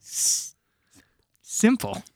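high, drawn-out hammy delivery; hammy ad actor. Acted. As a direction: deliver the punch word like a bad actor. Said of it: "you need to be, like, the actor".

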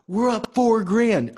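high, loud and slow excitement; excited. Retold or imitated. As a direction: shout it like you just won. Excited friends calling from golf.

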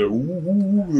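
slow, low mock "ooh"; drawn-out imitation of cartoon oohs; cartoonish oohing. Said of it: "the cartoonish".

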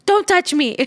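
mother imitating her daughter telling a boy off, high and loud; little girl's voice. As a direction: pipe it up like a small girl standing her ground. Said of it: "I see her go".

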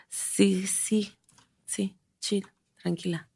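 soft, gentle reassurance; calm your younger self down, softly; soothing. Pretend. Soothing her fifteen-year-old self.

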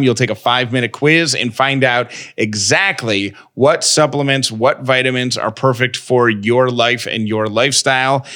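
brisk, upbeat sponsor read. Acted. Host reading a vitamin sponsor spot, upbeat ad voice. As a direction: sell it like a podcast ad.

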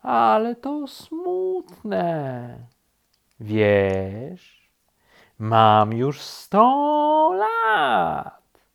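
high, extremely drawn-out doleful voice; very slow turtle. A narrator's reading. Turtle ponders its age, dolefully slow. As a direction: stretch every word with long pauses.

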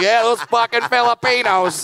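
lightly voiced clueless racist; mock audience member. Imitating the audience, in a lightly voiced sneer. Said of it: "You're like".

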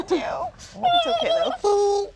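laughing. Real, not acted. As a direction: laugh it out, barely able to talk. Friend laughing at the impression.

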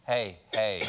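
low hush of a wife, laughing through it; wife hushing him in public, low and laughing. Retold or imitated. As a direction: shush him like an embarrassed wife. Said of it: "my wife turns around and goes".

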